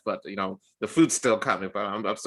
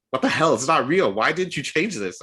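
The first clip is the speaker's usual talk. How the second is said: louder, higher exasperated date; mock outrage; 6 semitones higher, 5 dB louder than usual. The date demanding why he never changed the ID, mock outrage. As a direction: play the date fed up and accusing.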